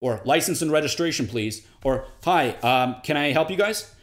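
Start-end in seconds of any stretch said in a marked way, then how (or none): 0.2-1.7 louder, curt police demand; lightly voiced officer at a traffic stop; mild no-nonsense cop tone; breaking rapport cop. Shown as a demonstration. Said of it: "a police officer". 2.2-3.9 louder, cool unwelcoming offer; a hint of a brusque clerk; breaking rapport. Shown as a demonstration. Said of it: "it's breaking rapport".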